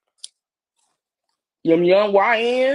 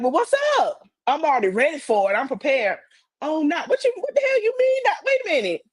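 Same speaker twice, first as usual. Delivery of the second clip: mock outraged; 6 semitones higher than usual. Acting out her angry reaction.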